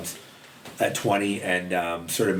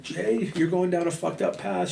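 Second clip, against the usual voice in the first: imitating a crying friend, high and drawn-out; high-pitched, slow mock-tearful plea; tearful pleading; 11 semitones higher than usual. Crying friend stops him outside his house, tearful pleading. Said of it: "I remember her crying".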